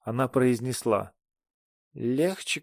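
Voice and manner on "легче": tipsy, rising "Легче" with a lazy slur; drunk slur. Acted. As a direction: slur "Легче" upward, half-teasing. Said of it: "пьяным, заплетающимся языком".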